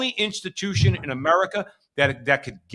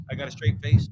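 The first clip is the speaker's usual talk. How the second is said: mock-solemn imitation of the mayor, in his usual voice; deadpan parody of a politician keeping a straight face; 3 semitones lower than usual. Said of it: "He says".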